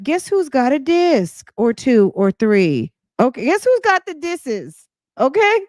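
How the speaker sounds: high, teasing and gloating. Real, not acted. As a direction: rub it in playfully. Gloating at critic.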